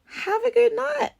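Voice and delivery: mock-polite goodbye, pitch lifting high at the end; forced kindly farewell; kindly sign-off. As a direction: politely dismiss the date, ending on a high note. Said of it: "kindly said".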